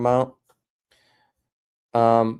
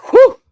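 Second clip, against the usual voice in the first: sudden high yelp of delight; loud high whoop; 15 dB louder than usual. Real, not acted. Streamer whooping loudly at a chat message. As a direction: let out a shrill whew.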